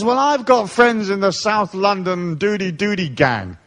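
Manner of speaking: mocking the club owner. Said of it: "He says".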